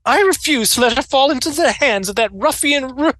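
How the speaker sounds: put-on high, scornful old woman voice; haughty old governess. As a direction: sneer it like a stern widow.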